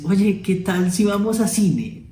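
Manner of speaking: slow, stretched-out asking; drawn-out invitation. Shown as a demonstration. Teacher demos a slow, drawn invitation to the cinema. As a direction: linger over each word. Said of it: "¿Acaso le dices".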